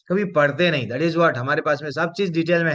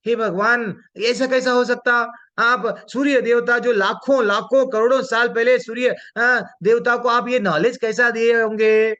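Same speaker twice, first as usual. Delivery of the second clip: higher-pitched, mildly incredulous Arjuna; puzzled questioning; 5 semitones higher than usual. Acted. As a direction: ask God in raised-pitch disbelief. (हैरानी भरा सवाल, ऊँचे सुर में)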